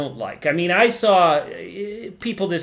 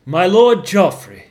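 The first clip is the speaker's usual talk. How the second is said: gasped; 8 dB louder, slower than usual. Acted. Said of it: "Tyrion gasped".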